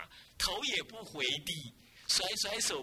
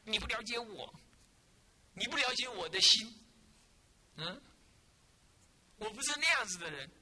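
pleading student; 3 semitones higher than usual. Retold or imitated. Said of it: "然后你又说".

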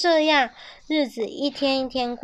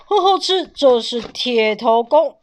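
proud teacher; 6 dB louder than usual. A narrator's reading. Father teaching iron head.

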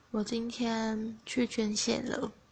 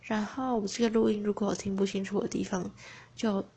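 talking through braces; words blurred by a brace. Real, not acted. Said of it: "因为我现在在戴牙套".

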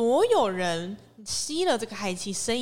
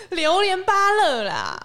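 mock angry; 8 semitones higher, 6 dB louder, much slower than usual. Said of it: "angry fruit game".

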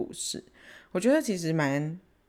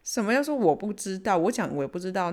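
retold anger; 4 semitones higher than usual. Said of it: "气到爆炸这样".

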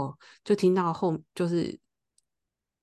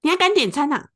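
high, loud imitated roar at her; angry yell; 11 semitones higher, 7 dB louder than usual. Stranger in the car behind yelling at her, loud angry retold shout. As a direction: bark it like an enraged stranger. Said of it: "他就大骂我说".

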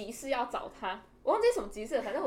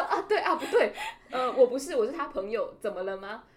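flustered stammer; 6 dB louder than usual. Retold or imitated. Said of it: "我就说".

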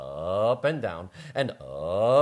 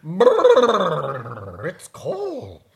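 shivering brrr; 3 semitones higher, 6 dB louder, much slower than usual. Acted. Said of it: "He said".

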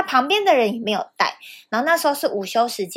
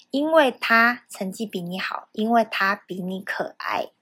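cold teacher reply; 3 semitones lower, 3 dB quieter than usual. Retold or imitated. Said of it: "老师说".

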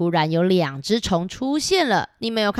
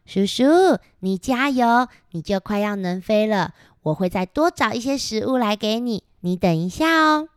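gentle encouragement; 2 semitones higher than usual. Acted. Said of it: "温柔的帮他搓揉翅膀".

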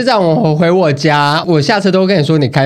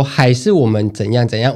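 gentle suggestion; 4 semitones lower than usual. Shown as a demonstration. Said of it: "我会说：".

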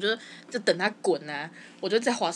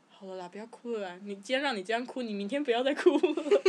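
soothing mom; 3 dB quieter than usual. Retold or imitated. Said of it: "我妈说".

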